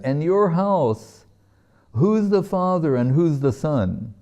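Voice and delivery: high-pitched teasing question. Retold or imitated. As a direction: imitate someone teasing, lilting up high and slowing at the start. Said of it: "teasing him, said".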